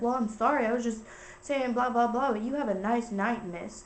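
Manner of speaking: mock-snappy, sarcastic apology; snappy comeback. Guy answering an annoyed stranger, mildly snappy. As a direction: imitate a guy snapping back, dropping off at the end. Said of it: "like, snappy back at her".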